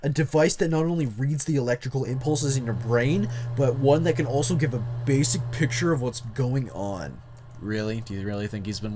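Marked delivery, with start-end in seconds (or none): 0.0-7.2 lightly voiced jock reading aloud; a hint of jock in the narration. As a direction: put on a touch of jock swagger. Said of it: "read this in the jock voice".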